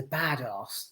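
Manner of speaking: "badass" with a long British "ah" in the second syllable; failed badass attempt. Shown as a demonstration. Reviewer testing it on Jamie Lee Curtis' character, British "badass". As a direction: try "badass" and land on "bad-ahss". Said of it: "No, it doesn't work".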